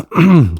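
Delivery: sudden throat clearing; choking cough. Real, not acted. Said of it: "I was choking actually".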